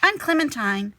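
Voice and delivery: Clementine reminding. Acted. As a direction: remind the new kid who you are. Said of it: "she reminded me".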